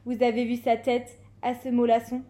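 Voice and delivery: lightly hammed bully's taunt; exclaimed. A narrator's reading. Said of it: "s'exclama-t-il".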